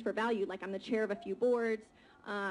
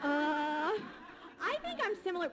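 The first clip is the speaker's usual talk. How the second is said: slow, higher answer through real laughter; laughing; 7 semitones higher, much slower than usual. Real, not acted. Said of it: "It's not caring that's going on here".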